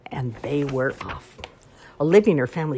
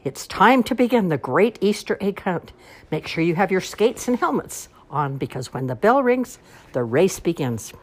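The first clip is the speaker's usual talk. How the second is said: announcing; 5 semitones higher, 4 dB louder than usual. Acted. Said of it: "she shouted through a megaphone".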